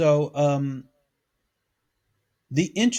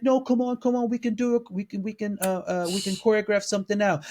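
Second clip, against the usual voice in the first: imitating pleading; 4 semitones higher than usual. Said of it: "And she's like".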